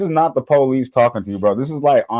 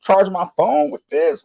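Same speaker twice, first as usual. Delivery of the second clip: excited scammer; 8 semitones higher than usual. Retold or imitated. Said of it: "looking at the car like".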